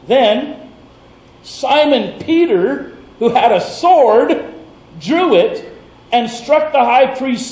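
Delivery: measured Bible reading, rising at the sword strike; scripture reading. A narrator's reading. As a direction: read the passage as a sermon text. Reading the scripture passage aloud.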